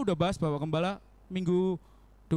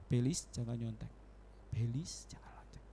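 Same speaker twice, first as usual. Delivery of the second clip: lower, softer, fading to a whisper; 8 semitones lower, 9 dB quieter than usual. Retold or imitated. God's voice growing faint as Belis ignores it, whispered. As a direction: let the voice die away. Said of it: "Lama-lama suaranya".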